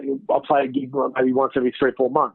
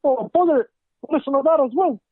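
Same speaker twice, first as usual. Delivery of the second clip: silly high voice; 12 semitones higher than usual. Pretend.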